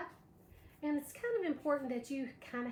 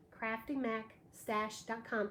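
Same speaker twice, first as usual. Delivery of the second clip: slow spelled-out address; 3 semitones lower than usual. Shown as a demonstration.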